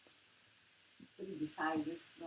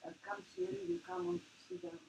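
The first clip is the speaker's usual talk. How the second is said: much higher coaxing voice, talking to a fly; 13 semitones higher than usual. Retold or imitated. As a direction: coax it like calling a pet, pitch way up. Coaxing the fly onto screen.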